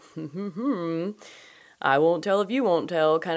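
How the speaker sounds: put-on chummy, smug rich man voice. Imitating how a fraudster talked, as a chummy rich guy. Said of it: "He says it like that kind of, like, chummy, rich guy".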